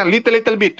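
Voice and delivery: put-on halting English with an Indonesian accent; Indonesian-accented broken English. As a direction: imitate an Indonesian with little English. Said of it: "Orang kita nggak bisa bahasa Inggris".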